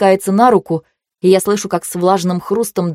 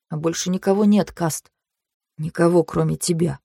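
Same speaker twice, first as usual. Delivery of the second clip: calm. Acted. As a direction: say it perfectly calmly. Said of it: "совершенно спокойно".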